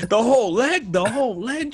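high, loud mock-horrified question; stunned, high-pitched protest; aghast disbelief. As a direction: squeal it back in comic disbelief. Plays aghast listener to a rapper's demand.

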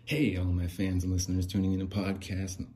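hammed-up show-opener greeting; podcast host voice. Third try at the viral video lines, podcast host voice. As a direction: launch into the host intro with gusto. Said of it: "The voice".

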